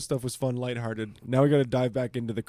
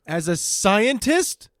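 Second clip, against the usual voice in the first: slow, higher disbelieving question; incredulous; 6 semitones higher, 5 dB louder, much slower than usual. Real, not acted. Incredulous repeat.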